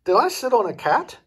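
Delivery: a flustered witch asking in alarm; fluttery witch. A narrator's reading. Nearsighted witch startled by a meowing pillow, fluttery.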